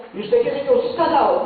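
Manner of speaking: pressing a stranger for personal details; pushy questioning. Pretend. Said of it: "Pero si llegamos de alguien". (interrogatorio entrometido, más agudo)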